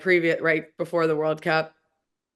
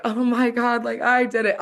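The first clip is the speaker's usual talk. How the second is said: higher-pitched happy exclamation; excited retelling; 7 semitones higher, 3 dB louder than usual. Retold or imitated. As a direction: relive telling your parents the good news. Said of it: "calling my parents and being like".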